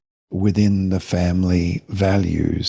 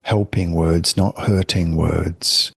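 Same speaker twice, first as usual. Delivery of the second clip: gentle parent phrasing. Shown as a demonstration. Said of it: "So I prefer to say".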